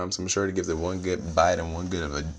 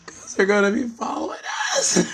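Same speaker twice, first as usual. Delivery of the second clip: loud laughing exclaim; 5 dB louder than usual. Real, not acted. Laughing punchline.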